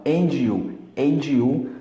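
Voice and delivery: "and you" linked with the sound of tchau. Shown as a demonstration. Teacher showing Brazilians the tchau sound in "and you", linked. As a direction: run "and you" together with a ch-like join. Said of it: "como em tchau".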